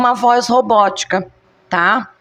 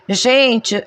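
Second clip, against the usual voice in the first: usual speaking voice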